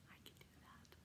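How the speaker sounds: hushed whisper to herself, working up the nerve; whispered thought. Retold or imitated. Telling viewers her thought about the workout, in a whisper. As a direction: breathe it out like a private thought. Inner thought quoted after "I thought.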